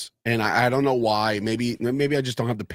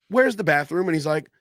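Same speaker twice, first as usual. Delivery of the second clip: high, sing-song mock Irish lilt; mocking Irish accent; 10 semitones higher than usual. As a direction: parody the chatty Irish characters. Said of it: "in this show, they're like".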